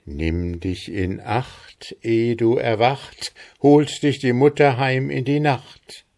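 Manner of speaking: measured chant that rises as it goes; unfaltering recitation. A narrator's reading. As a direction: recite the spell in rhythm, building in confidence. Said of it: "sprachen Mutter und Sohn noch einmal zusammen und ohne Anstoß".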